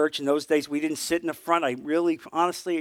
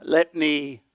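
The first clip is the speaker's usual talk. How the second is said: weasel excuse. Retold or imitated. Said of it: "what I call the church weasel language".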